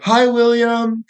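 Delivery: mock high-pitched phone greeting. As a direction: put on a high, slow woman's voice. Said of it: "a more high-pitched voice than normally".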